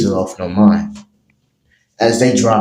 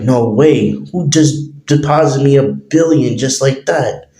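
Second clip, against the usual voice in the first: freaking out; 6 semitones higher than usual. Acted. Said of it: "As he's freaking out".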